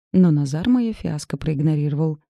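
ordinary delivery

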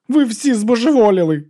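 high loud wail; high loud despairing wail. A narrator's reading. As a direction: howl it out in despair. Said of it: "завив брат Діас".

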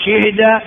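شهد as shihda; shifted vowel. Shown as a demonstration. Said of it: "أربع لغات". (شهد بكسر الشين وتسكين الهاء)

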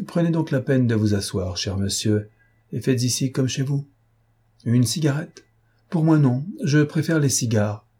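lightly voiced, loquacious mock host; urbane stranger. Intruder offers his captive a seat, lightly mock-courteous.

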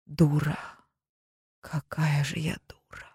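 whispered self-reproach; breathless whisper of regret. Acted. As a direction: whisper it, berating yourself. Heroine scolds herself silently.

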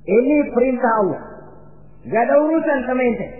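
high, fast retort; firm rebuff. Acted. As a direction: cut the tempter off briskly. Ibrahim rebuffs the devil. (membantah tegas, cepat)

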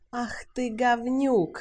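slow, high, loud curse; rejected woman cursing the man; furious insult. A narrator's reading. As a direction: spit the insult at him. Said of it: "сказала Салли".

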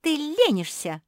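high, loud squeal of blame; shrieking. A narrator's reading. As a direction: squeal the accusation. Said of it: "взвизгнула Жози".

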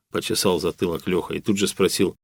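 ordinary delivery, nothing marked

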